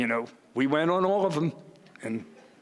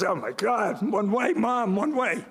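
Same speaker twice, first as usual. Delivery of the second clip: high-pitched mock panic at mom's driving; retold alarm; 7 semitones higher than usual. Son warning mom about a one-way street, in mock alarm.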